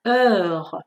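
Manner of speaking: teacher's careful model of Heure; drawn-out French eu. Shown as a demonstration. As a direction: stretch the eu in Heure. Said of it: "یکم این دفعه کشیده تر از ژ".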